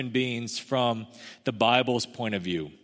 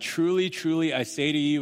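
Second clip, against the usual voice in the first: solemn Jesus phrasing; 4 semitones higher than usual. Retold or imitated. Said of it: "a certain way that Jesus talks".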